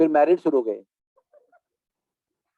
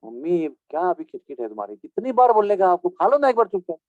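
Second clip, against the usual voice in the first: fed-up son. Retold or imitated. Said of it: "तीन ही बार में पक गया वो".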